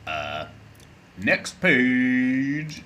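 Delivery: ordinary talk, nothing marked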